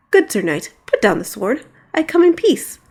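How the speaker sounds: a hint of a roaring dragon; lightly voiced dragon speaking calmly. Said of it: "a roar which almost sounded like words".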